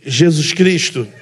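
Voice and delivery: slow, drawn-out mock announcement of the name, laughing; barista's changed voice. Preacher imitating the barista who changed her voice to call his cup. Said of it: "Ela até mudou o tom da voz".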